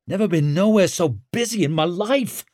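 a touch winded and overwhelmed; gasped complaint. A narrator's reading. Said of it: "gasped Tallow".

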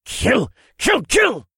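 high, gleeful little dragon chant; delighted tiny dragon voice; squeaky baby dragon. Acted. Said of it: "His glee and enjoyment were obvious".

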